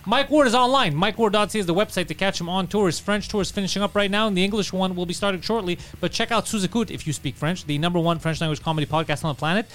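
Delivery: brisk promotional host read; podcast outro plug. Acted. Host plugging channel and tour to listeners, promotional read. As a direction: pitch opens high, settles as plugs roll on. Host reads closing plugs.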